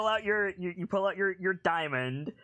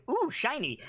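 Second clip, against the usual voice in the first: higher, delighted goblin coo over a shiny thing; dazzled goblin; 7 semitones higher than usual. Retold or imitated. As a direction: coo like a greedy little goblin spotting treasure. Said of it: "He's like".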